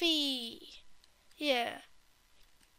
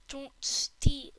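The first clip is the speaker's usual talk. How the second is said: whisper; 4 dB louder than usual. Acted. Whispering a rule.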